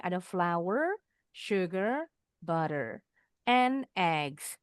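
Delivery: "flour" and "sugar" lifted, "eggs" closing the list; list intonation. Shown as a demonstration. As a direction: count off items, lifting "flour" and "sugar". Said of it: "Intonasinya naik, naik". ("flour", "sugar" naik seperti membaca daftar)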